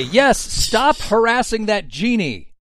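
loud, drawn-out in-character telling-off; loud scolding. Acted. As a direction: scold everyone slowly and loudly. Player character scolds the party.

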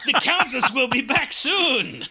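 high hammy French voice; a lightly voiced French servant; mock French accent. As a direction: play a campy French butler. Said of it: "I think I".

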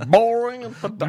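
mock disdain. Riffing on secret word.

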